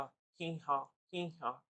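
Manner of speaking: lightly imitated donkey hee-haw; mild mock bray, hee then haw. Shown as a demonstration. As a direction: mimic a donkey braying in two slow bursts. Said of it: "ಕತ್ತೆದು ಕರ್ಕಶ ಧ್ವನಿ ಗೊತ್ತಲ್ಲ?".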